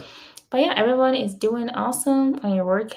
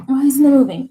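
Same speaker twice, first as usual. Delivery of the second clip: frustrated; 4 semitones higher, 9 dB louder, faster than usual. Real, not acted. Desk stuck, frustrated.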